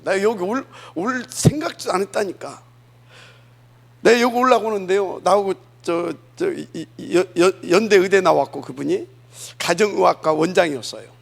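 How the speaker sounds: loud, driving sermon voice; forceful preaching. Acted. Pastor preaching loudly to his congregation, forceful.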